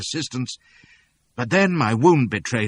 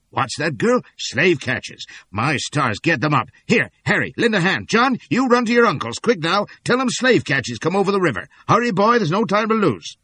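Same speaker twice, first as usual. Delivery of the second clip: urgent townsman; 9 semitones higher, 6 dB louder than usual. A narrator's reading. Townsman rallying helpers.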